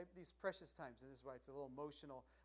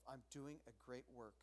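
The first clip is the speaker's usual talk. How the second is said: soft, lower self-reminder; quiet reminder; 4 semitones lower, 9 dB quieter than usual. Retold or imitated. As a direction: remind yourself under your breath. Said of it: "remind yourself".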